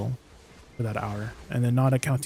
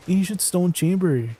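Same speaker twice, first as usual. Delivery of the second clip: put-on playful Canadian accent, higher and drawn out; 4 semitones higher than usual. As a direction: repeat it slowly in a mock Canadian accent. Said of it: "Was that a Canadian accent that just came out of me?".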